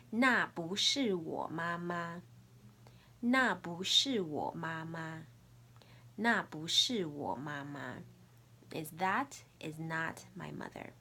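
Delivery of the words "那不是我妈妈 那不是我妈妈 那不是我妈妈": slow, careful tones on 那不是我妈妈; Mandarin model phrase. Shown as a demonstration. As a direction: model 那不是我妈妈 slowly for the class. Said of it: "repeat after me".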